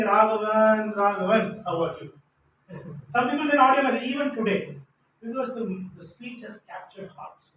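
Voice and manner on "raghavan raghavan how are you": sing-song greeting. Retold or imitated. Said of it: "who ping me saying".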